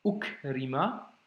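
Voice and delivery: slow "Ukrima", starting on a caught "ou"; measured reading demo of "Ukrima"; blocked ou. Shown as a demonstration. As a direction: say "Ukrima" in careful separate syllables. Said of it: "je bloque avec le ou".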